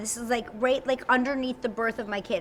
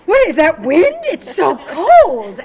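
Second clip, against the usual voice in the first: whiny friends; 4 semitones higher, 13 dB louder, slower than usual. Retold or imitated. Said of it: "They are like".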